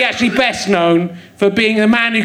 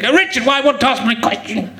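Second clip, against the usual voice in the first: put-on, over-serious audience question; serious big questioner; 2 semitones higher than usual. Audience member calling out a question for the guest, mock serious. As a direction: ask it with big mock importance. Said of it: "in a really serious big".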